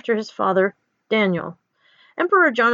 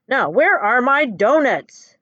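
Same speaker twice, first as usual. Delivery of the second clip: slow, louder, drawn-out demand; 3 semitones higher, 5 dB louder, slower than usual. Acted. Emperor demands his donuts from the prisoner, loud and slow. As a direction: lean on each word, a mild bellow. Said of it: "the emperor asks loudly".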